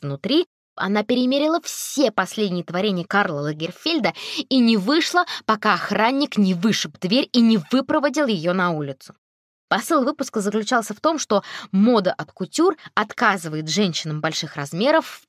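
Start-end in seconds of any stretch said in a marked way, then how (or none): none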